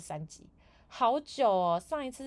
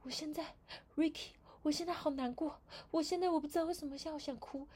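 much higher, whimpering mock distress; high, put-on tearful whine; whiny fake sadness; 8 semitones higher than usual. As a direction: play the coworker faking tears. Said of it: "他又突然跟我说".

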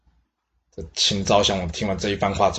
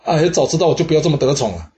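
higher, louder, hammed-up panicked sigh; mock frightened whine; 7 semitones higher, 5 dB louder than usual. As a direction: wail it like a scared pet lover regretting his luck. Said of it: "吓了半死啊".

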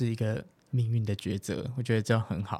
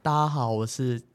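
imitated Taiwanese accent. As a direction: put on a cutesy Taiwanese accent. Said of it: "对，试看看。".

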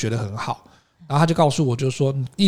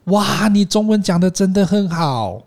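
slow, gushing fake compliment; 夸张客套的语气; exaggerated polite flattery; 4 semitones higher, slower than usual. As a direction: overdo the polite small-talk praise. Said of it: "故意用那个奇怪的腔调".

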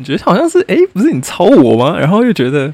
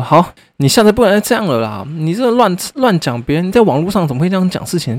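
higher, lightly voiced scolding of a kid; adult scolding a child; 5 semitones higher than usual. Ms. H lecturing him like a child, mild scolding. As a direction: talk down like a grown-up to a child. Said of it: "就很像是用大人的口吻在跟小孩讲话".

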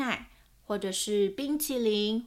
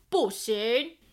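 firm, louder refusal; 5 dB louder than usual. Acted. Dad refusing Owen's blanket, louder and firm. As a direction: put your foot down on it. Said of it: "爸爸说得更大声".

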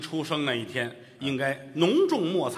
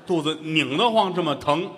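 complaining wife; 3 semitones higher, 4 dB louder than usual. Acted. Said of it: "哎，我这个肚子".

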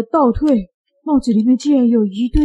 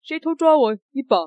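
startled who; 6 semitones higher than usual. Acted. Assistant startled by pinch.

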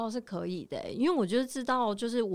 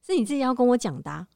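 annoyed husband; 2 semitones higher, 5 dB louder than usual. Retold or imitated. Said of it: "他就会说".

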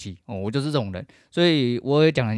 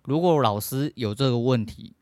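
normal talking voice

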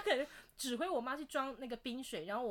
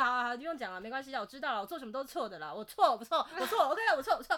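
sulky self-pity; 2 semitones higher, 5 dB louder, faster than usual. Retold or imitated. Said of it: "他说".

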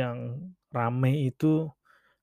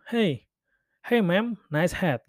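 a hint of chirpy foreign passer-by; friendly stranger's compliment; 3 semitones higher, slower than usual. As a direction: call out a casual English compliment.

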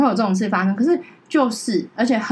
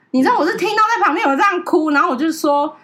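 laughing through it; 8 semitones higher, 4 dB louder than usual. Real, not acted. Laughs while recalling crying.

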